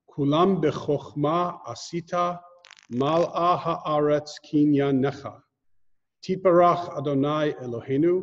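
measured recitation in separate phrases; Hebrew prayer reading. Real, not acted. Teacher leading the class through the Yotzer prayer, measured recitation. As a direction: recite the blessing so learners can follow along.

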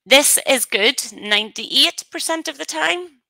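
slow, carefully spaced words for the dictation tool; dictating to software. Shown as a demonstration. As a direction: speak each word clearly so the software catches it. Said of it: "Hopefully it picks me up this time".

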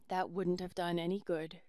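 a tired, grave father; lightly voiced father. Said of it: "said Long Alec".

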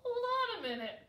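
high-pitched indignant objection; protesting. A narrator's reading. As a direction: call a halt in protest. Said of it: "protested Baby Owl".

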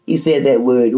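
ordinary talk, nothing marked

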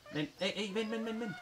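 high, quick repeated beckoning; coaxing animal call. Real, not acted. Player beckons the chimpanzee to come over, high coaxing call. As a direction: keep beckoning in a light high voice.

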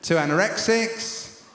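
slow bingo call with a pause; bingo caller. Acted. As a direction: drag it out like a caller. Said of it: "update the bingo calling".

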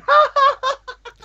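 high, mocking "ha ha" laugh; imitated laugh. Idol laughing at fan, imitated high laugh. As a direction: imitate someone laughing at you. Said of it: "She was, like, laughing at me".

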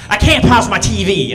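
mock Arkansas accent with a laugh; laughing through a light Arkansas twang; Arkansas country mom. Comic repeats mom's line in a laughing Arkansas twang. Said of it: "She's real country from Arkansas".

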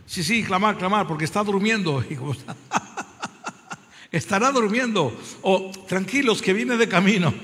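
teasing taunt broken by laughs; mocking laughter. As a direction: laugh at them while you taunt. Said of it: "se estaba riendo de ellos".

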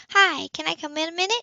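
a light lift for the kind social worker; lightly voiced woman. A narrator's reading. Anna voiced by narrator.

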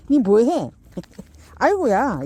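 slow, laughing through the words. Real, not acted. Owner laughing as puppy nibbles, slow and giggly. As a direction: draw it out while giggling.

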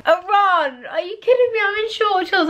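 high, outraged disbelief; can't believe she has to run in this; incredulous. Real, not acted. Told to run in short shorts, high disbelief. Outraged at being sent running.

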